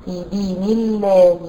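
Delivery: في دين الله with a thin, light lam in الله after the kasra; correct slow recitation. Shown as a demonstration. Teacher giving the right reading of في دين الله. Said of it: "مش الله".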